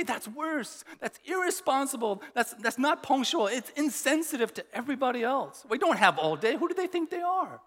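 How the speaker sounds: judgmental indignation. Retold or imitated. Preacher mimics his church judging late cultures, indignant and mocking. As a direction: play the self-righteous critic.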